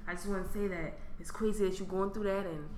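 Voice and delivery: hint of a singer's intro talk; mock smooth DM guy. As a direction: talk like a greasy DM pickup line. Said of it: "talking about".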